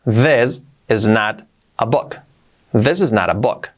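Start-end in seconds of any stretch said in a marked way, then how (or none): 0.0-2.2 slow, careful teaching delivery; slow model sentence. Shown as a demonstration. Teacher slowly models the sentence first. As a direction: spell it out slowly for learners. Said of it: "Dicho rápido".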